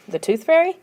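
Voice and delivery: high, baffled question; confused question. A narrator's reading. Confused sister asking about the tooth fairy, high and baffled. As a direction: ask it in disbelief.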